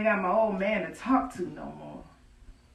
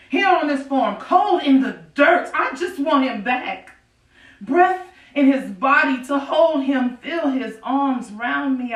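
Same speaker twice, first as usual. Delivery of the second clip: louder, raw pleading to God; anguished outcry; 2 semitones higher, 4 dB louder than usual. Acted. Grieving widow pleads with God to return her husband, raw and loud. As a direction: cry out the loss, pushing.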